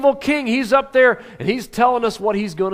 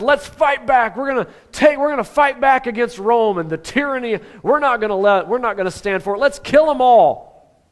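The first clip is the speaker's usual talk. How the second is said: rally the mob, hit the last line hard; rioter's rallying cry; 5 semitones higher, 4 dB louder than usual. Retold or imitated. Barabbas rousing the crowd against Rome, building loud. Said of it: "A guy who led riots and said".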